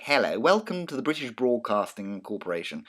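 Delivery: put-on a light touch of clipped old BBC English; hint at the clipped old BBC accent, lightly. Teacher mimics a 1950s BBC announcer, lightly clipped BBC accent. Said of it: "they are all clipped in that accent".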